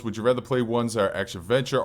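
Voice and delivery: usual speaking voice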